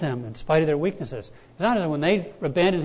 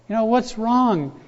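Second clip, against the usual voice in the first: exasperated cry; 6 semitones higher, 5 dB louder than usual. Retold or imitated. Man shouting at the sky.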